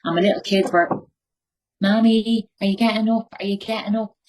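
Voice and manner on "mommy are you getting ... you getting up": put-on child's voice. Voicing her small children.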